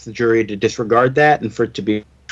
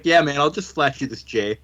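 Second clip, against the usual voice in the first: lightly imitated laid-back surfer voice; a hint of California dude; Californian surfer dude; 4 dB quieter than usual. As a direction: play it as a chilled-out surfer. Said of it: "a bit of a Californian surfer dude".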